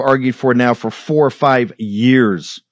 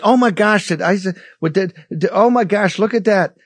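mock surprise; 6 semitones higher than usual. Mocking officials' fake surprise.

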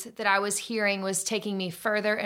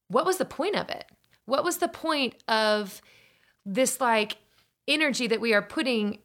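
anguished angry questions; 5 semitones higher than usual. Retold or imitated. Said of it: "I was so angry".

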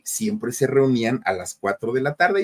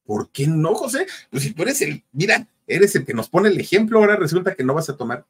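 higher-pitched mock disbelief; retold incredulous protest; 6 semitones higher than usual. Friends question José's refusal to drink, mock incredulous protest.

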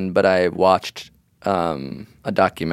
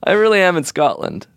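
fake crying; 7 semitones higher than usual. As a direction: pretend to sob it out. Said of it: "You're crying".

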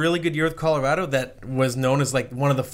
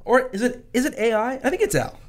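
mock puzzled; 10 semitones higher than usual. Wondering if asker is AI.

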